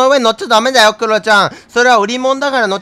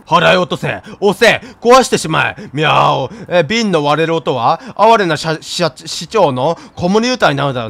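lower, commanding mayor voice; pompous mayor cat; 3 semitones lower than usual. Acted. Streamer voices the mayor urging him to smash jars, pompous. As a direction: bark the orders like a tiny tyrant.

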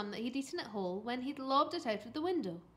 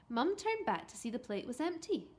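usual speaking voice

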